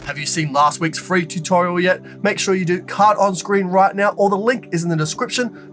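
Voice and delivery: bright, upbeat promo read with music; promo host read. Acted. Host plugging the channel to viewers, upbeat promo. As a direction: sell the channel, high and lively.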